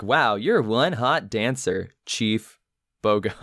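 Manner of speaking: slow robotic app voice; automated voice. Retold or imitated. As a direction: speak like a flat robot app. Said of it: "the sort of automated voice".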